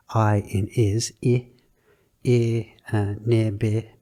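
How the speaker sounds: "I" in "is" clipped very short; short vowels. Shown as a demonstration. Teacher showing short vowels like "is". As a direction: sound the short I of "is", "bi". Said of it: "very short vowels".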